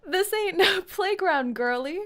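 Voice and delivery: British tough talk breaking into laughter; hammy British accent, half laughing; attempted British accent. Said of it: "I don't know how to talk British like this".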